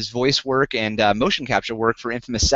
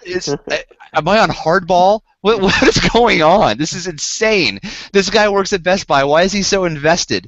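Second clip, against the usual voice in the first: baffled outburst; 4 semitones higher, 4 dB louder than usual. Real, not acted. Baffled rant about the salesman.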